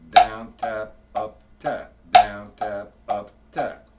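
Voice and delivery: Down called out loud, tap lighter; accent on down. Shown as a demonstration. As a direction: hit each Down hard, keep up light. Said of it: "to hit the accent".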